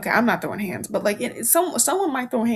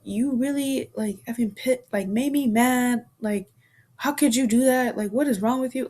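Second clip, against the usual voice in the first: angry tone; 2 semitones higher than usual. Shown as a demonstration. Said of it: "in that tone".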